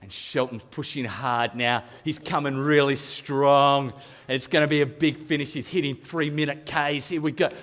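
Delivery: understated race commentator patter; lightly imitated sports commentary; triathlon commentary. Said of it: "I'm commentating myself as if I'm in a triathlon".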